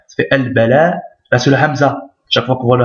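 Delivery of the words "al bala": "al-bala" with a long final "laa"; prolonged a. Shown as a demonstration. Teacher sounding out the word, "al-bala" prolonged. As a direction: hold the last vowel of "al-bala". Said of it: "c'est la prolongation du a".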